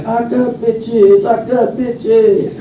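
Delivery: slow, drawn-out sly offer; slow tempting devil. Retold or imitated. Devil luring him away from Jesus, slow and sly.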